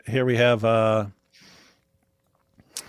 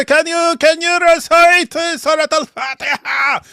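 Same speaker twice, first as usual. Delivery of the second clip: high, put-on questioning voice; imitating the guy; 14 semitones higher, 4 dB louder than usual. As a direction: ask it in a mocking falsetto. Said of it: "the guy".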